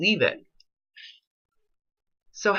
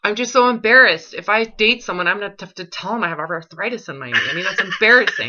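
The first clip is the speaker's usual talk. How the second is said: mocking impersonation. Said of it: "you're gonna hear yourself say it again".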